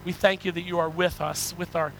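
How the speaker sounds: earnest, measured pastoral prayer; congregational prayer. Real, not acted. Preacher thanking God for his word, congregational prayer. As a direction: lead the congregation in sincere prayer.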